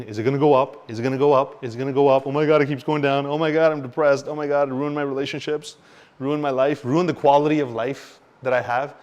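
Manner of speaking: anxious investor. Retold or imitated. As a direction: wail it like you're watching your savings vanish. Panicked investor watching price fall.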